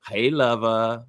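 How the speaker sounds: "Hey, lover" drawn out slow and low. Retold or imitated. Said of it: "She's like".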